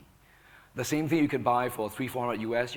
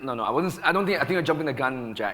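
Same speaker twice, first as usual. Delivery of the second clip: insistent protest; 2 semitones higher, 5 dB louder, faster than usual. Real, not acted. Panelist correcting Jack for jumping the gun, insistent protest. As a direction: cut in firmly to deny it. Panelist interrupts to deny an accusation.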